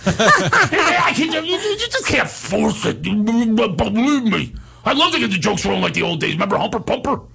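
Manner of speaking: high, sputtering, pleading impression; hammed-up squeal that stretches words; Steiny. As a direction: stammer it up high. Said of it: "He goes, he goes".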